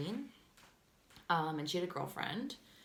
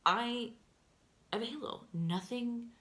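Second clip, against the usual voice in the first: high-pitched imitation of a protesting friend; mock innocence; 6 semitones higher than usual. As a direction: mimic her denials in short, high bursts. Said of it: "That's always how her stories go".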